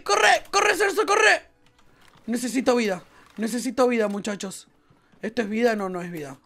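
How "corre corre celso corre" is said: urgent shouting. Real, not acted. Urging teammate to flee.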